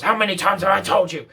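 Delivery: dog owner gets firm with the barking dog; firm telling-off. Retold or imitated. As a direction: snap at the dog like an owner losing patience. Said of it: "and gets firm".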